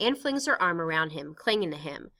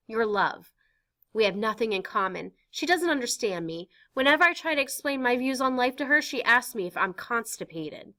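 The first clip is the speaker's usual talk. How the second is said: Anne pouring out her heart, higher; earnest teenage girl; 5 semitones higher, 4 dB louder than usual. Acted. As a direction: confess to Pym, eager and raw. Anne complaining about mother.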